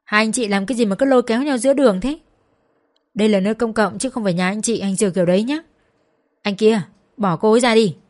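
put-on an older neighbour yelling at a couple fighting in the street; old man scolding. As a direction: raise your voice to break up a street fight. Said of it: "chạy ra quát".

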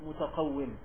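متقوم said "mutaqawwim"; short i in the last syllable of متقوم; with kasra. Shown as a demonstration. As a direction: pronounce متقوم with kasra on the waw. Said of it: "فأحسن اجعلها بالكسر".

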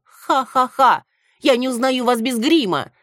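high, loud mocking cackle; shrieking laugh. A narrator's reading. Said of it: "закричала Антонина".

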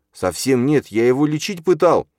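loud, high-pitched denial; desperate protest. A narrator's reading. Числав defending himself to his father, desperate protest. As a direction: plead innocence, voice rising.

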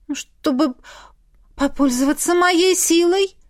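a touch of hesitation; unsure. A narrator's reading. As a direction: answer hesitantly. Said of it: "неуверенно ответила я".

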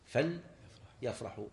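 فليفرحوا split slowly as "fal... yafrahu"; silent lam after fa. Shown as a demonstration. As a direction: pause on the vowelless lam in فليفرحوا. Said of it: "أما الفاء".

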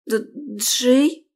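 bewildered. A narrator's reading. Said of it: "окончательно растерялась я".

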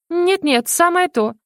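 high, hurried refusal; cling on and protest quickly; hasty protest. A narrator's reading.

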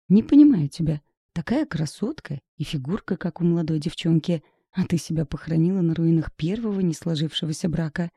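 ordinary delivery, nothing marked

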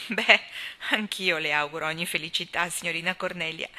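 a grave, formal good wish; mock-solemn congratulations. Gilbert congratulating Cornelia, solemn with a hidden tease. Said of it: "disse Gilbert solennemente".

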